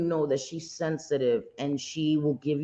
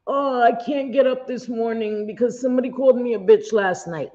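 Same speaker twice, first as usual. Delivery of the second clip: whiny mock voice; 5 semitones higher than usual. Mocking someone who can't get up after being called a bitch online, in a whiny voice. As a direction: parody a self-pitying complainer.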